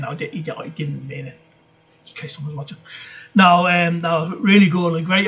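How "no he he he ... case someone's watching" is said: mock nervous retraction. Hastily retracting insult of devil child.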